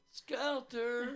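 calling a name across the park; sing-song call for a lost chimp. Retold or imitated.

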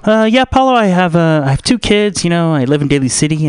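lightly voiced stylist making small talk; Cree Longstreet. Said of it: "this is an impression of Cree Longstreet".

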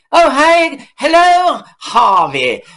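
butter Harvey up in a high sweet voice; fawning director. Retold or imitated.

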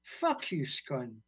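rhythmic, angry-edged spoken word; poem reading. Acted. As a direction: spit the refrain, then settle back. Recites swearing poem.

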